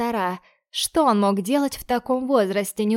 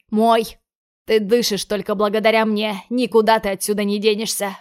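menacing; 4 dB louder than usual. Acted. Lorenzo domineering threats.

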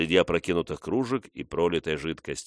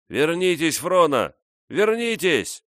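high, loud call after someone leaving; calling after her; 11 semitones higher, 5 dB louder, slower than usual. A narrator's reading. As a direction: shout it after her into the night. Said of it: "кричал он ей вслед".

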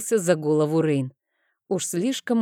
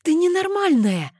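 much higher, louder outraged yell; shouting; 13 semitones higher, 4 dB louder than usual. Acted. Rein yells at Amanda, jumping from the bench, high loud shout. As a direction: burst out, leaping up in alarm. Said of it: "закричал Рейн".

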